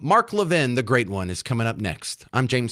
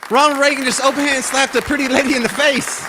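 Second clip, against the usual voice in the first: amazed; 13 semitones higher, 5 dB louder than usual. Real, not acted. Host amazed by Reagan clip.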